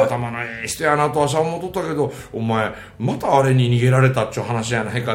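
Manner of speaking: lightly acted Kansai rakugo caller; rakugo nosy neighbour. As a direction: chide a friend in rambling storyteller patter. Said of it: "もう落語が出てくるんですよ".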